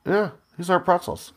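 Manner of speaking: put-on Russian accent. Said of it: "you do a mean Russian".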